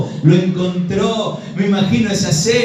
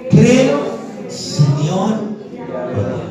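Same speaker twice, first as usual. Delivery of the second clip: high "creo", then "Señor" lifting at the end; leading a recitation; 4 semitones higher, slower than usual. Shown as a demonstration. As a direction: lead the congregation word by word. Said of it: "a ver, dígalo conmigo".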